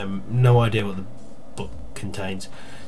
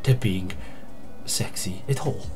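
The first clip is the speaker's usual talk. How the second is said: lilting put-on Welsh accent, pitched up in places; 3 dB quieter than usual. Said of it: "reading them in a Welsh accent".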